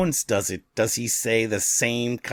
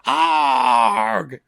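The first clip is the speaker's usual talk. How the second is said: mock scream; 5 semitones higher, 5 dB louder than usual.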